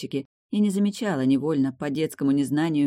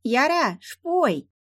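put-on high child voice, mouth full of pancake; gumming soft food; 11 semitones higher, 3 dB louder, much slower than usual. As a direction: mumble through a mouthful of pancake. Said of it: "прошамкала Млавка, жуя щедро сдобренный мёдом блин".

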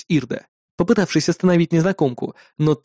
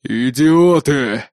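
hissed through teeth; much slower than usual. A narrator's reading. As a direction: spit it through clenched teeth. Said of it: "процедил он сквозь зубы". (процедил сквозь зубы)

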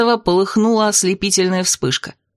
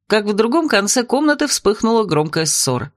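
usual speaking voice

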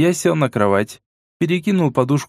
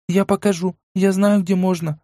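put-on eager girl's voice, higher, tumbling out; rapid chatter; 7 semitones higher than usual. A narrator's reading. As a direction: blurt it eagerly. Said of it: "тут же затараторила она". (торопливо тараторя)

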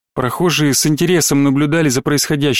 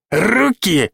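Руки? jumps much higher, incredulous; indignant squeak; 5 semitones higher than usual. A narrator's reading. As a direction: squeal the second Руки? in outrage. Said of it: "Лёша подпрыгивал на месте".

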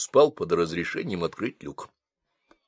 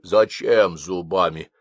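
offended; 2 semitones lower, 4 dB louder, slower than usual. Acted. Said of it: "обиделся Басилов".

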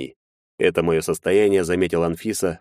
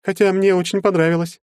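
put-on higher, louder girl's voice, teasing admission; coy girl; 13 semitones higher, 4 dB louder than usual. A narrator's reading. Anfisa confessing to Maxim she enjoyed it, coy girlish voice. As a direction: admit it with a shy smile.

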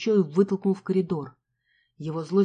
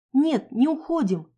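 defiant shout; 6 semitones higher, 4 dB louder, slower than usual. Acted. Heroine resists, shouts.

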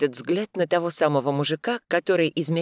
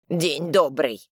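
slow greeting; much slower than usual. Acted. Old man greets slowly.

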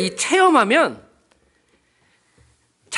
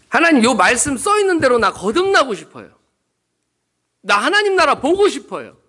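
acted fervent plea, louder and higher; pleading prayer; 4 semitones higher, 5 dB louder than usual. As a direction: voice the deaconess begging God. Deaconess praying fervently, retold.

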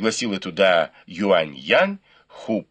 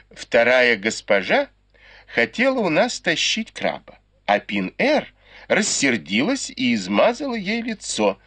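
loud answer; 5 semitones higher than usual. Acted. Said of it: "ответила громким голосом".

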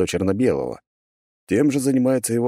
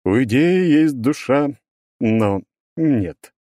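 booming stone golem voice; 3 semitones higher than usual. Acted. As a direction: boom it out as a verdict. Golem rejects loudly.

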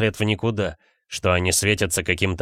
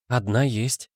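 sighing; 2 semitones higher, slower than usual. A narrator's reading. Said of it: "вздохнула та".

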